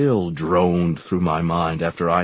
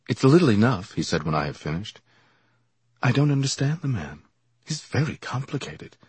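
put-on anxious young man; 6 semitones higher than usual. Same figure voiced.

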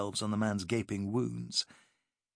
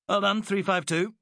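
gasped; 9 semitones higher, 4 dB louder than usual. Acted. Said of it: "gasped Fonthill".

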